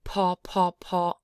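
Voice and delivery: PA with a puff of air on the P; aspirated P. Shown as a demonstration. Teacher reminding learners, aspirated P in PA. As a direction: pop each PA out, aspirated. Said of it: "remember that aspirated P is a".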